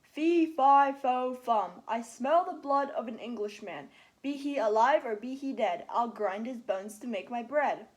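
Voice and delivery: big booming giant chant, loud; loud giant's rhyme; thundering giant. Acted. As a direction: roar it out like thunder shaking the castle. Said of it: "cried out in a voice like thunder".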